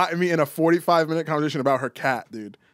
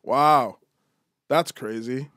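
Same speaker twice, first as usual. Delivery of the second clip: token listener replies with long gaps; feigned interest; 2 semitones lower, slower than usual. Retold or imitated. Trapped at lunch by a cat story, polite disengaged replies. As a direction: nod along emptily, one word at a time. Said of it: "kept going like this".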